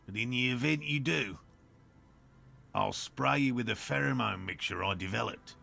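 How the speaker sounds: put-on lightly done Australian accent; a hint of a bad Australian accent. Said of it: "such a bad Australian accent".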